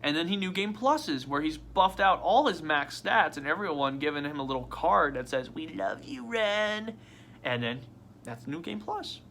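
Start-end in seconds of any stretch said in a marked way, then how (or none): 5.5-7.0 soft mock affection; tender. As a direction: read a loving card aloud, softly. Reads out the friends' card.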